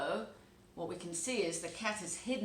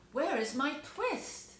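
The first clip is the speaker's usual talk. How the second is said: put-on higher, louder and slow, an old tailor demanding; 7 semitones higher, 5 dB louder, slower than usual. Old tailor asking his cat for the twist, high and slow. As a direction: press the cat for the missing thread.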